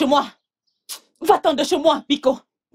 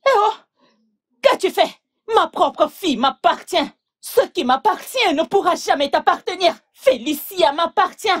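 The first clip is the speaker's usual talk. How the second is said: indignant, raised voice; outraged retort; 4 semitones higher than usual. Acted. Mother rebuking the suitor who invoked spirits, outraged. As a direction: fling it back at him, affronted.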